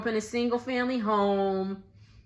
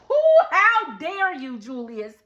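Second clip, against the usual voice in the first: indignant; 3 semitones higher, 3 dB louder than usual. Real, not acted. Scolding Julius.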